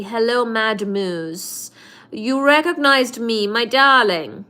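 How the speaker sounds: mock crazy lady calling him darling. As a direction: play a hammed-up crazy lady greeting a fan. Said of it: "It's the crazy lady".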